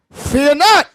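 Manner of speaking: deliberate, emphatic scripture reading; measured delivery, each phrase given room; slowly for listeners. Shown as a demonstration. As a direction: read it out slowly and firmly so everyone follows. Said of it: "say it again slowly for them".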